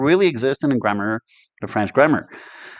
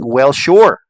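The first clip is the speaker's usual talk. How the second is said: casual shrug; 2 semitones higher, 6 dB louder than usual. Shown as a demonstration. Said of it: "So it's like saying".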